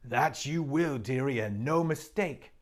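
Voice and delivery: put-on a motherly beaver teasing the girl; Missus Beaver.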